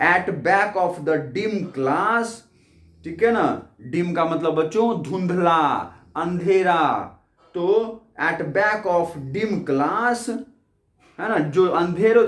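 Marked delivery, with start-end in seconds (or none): 0.1-2.3 each word read out slowly and clearly; slow poem reading. Shown as a demonstration. Teacher reads poem line aloud. 8.2-10.3 each word read out slowly and clearly; slow poem reading. Shown as a demonstration. Teacher repeats poem line.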